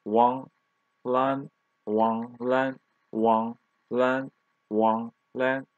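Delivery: both syllables of Wang Lan in second tone, slowly; second-tone demo. Shown as a demonstration. Teacher shows learners a dialogue name, Wang Lan in second tones. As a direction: model Wang Lan with a rising tone on each syllable. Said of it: "both of them second tone".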